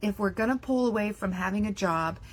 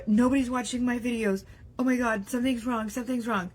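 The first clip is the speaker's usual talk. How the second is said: mock panic; 4 semitones higher than usual. Voicing creator panic.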